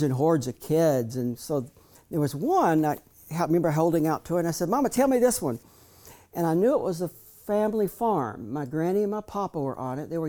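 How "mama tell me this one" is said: put-on higher little boy's plea; child asking. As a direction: lift the voice up like a small boy asking. Child asking mother about photo.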